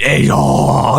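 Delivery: mock cheer.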